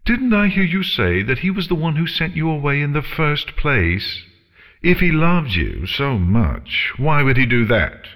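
high, haughty cross-examination; theatrical dragon challenge; taunting dragon. Acted. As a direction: needle her with mock-innocent questions, pitched high. Dragon needles the pony.

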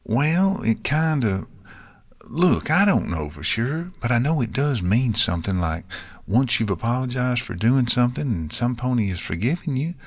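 put-on country kid fumbling through an explanation; Apple Bloom, explaining. Filly explaining a saying to friend, unsure.

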